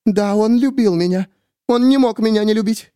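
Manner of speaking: high, fervent woman; cling to the belief; Miriam voiced. A narrator's reading. Miriam telling the narrator about Danny, high fervent.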